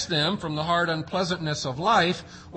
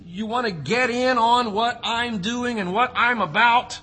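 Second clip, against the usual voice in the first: Jesus' invitation; 5 semitones higher than usual. Acted. Preacher voicing Jesus' invitation.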